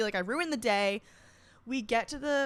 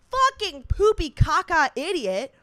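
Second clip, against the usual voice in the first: high, loud, drawn-out comic insult; self-disgusted outburst; 7 semitones higher, 7 dB louder than usual. Real, not acted. Bridesmaid berating herself for crying, loud self-disgust. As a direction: punch each silly insult slowly.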